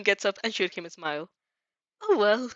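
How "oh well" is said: musing. A narrator's reading. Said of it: "she muses".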